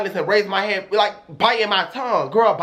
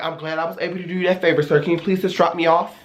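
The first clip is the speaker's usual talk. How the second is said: proper and catty; 2 semitones lower, faster than usual. Retold or imitated. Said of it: "I started being proper and catty".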